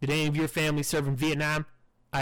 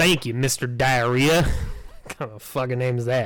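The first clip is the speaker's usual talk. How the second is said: playful, mocking teasing, all in fun; 7 dB louder than usual. Host introducing the next guest, teasing him about his name. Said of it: "I'm just teasing you there".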